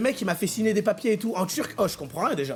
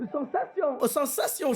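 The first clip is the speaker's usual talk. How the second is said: imitation foreigner's accent, slightly raised pitch; accent de Roum imité; 4 semitones higher, 3 dB quieter, slower than usual. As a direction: put on a broken Roum accent. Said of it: "je parlais comme ça". (faux accent de Roum, approximatif)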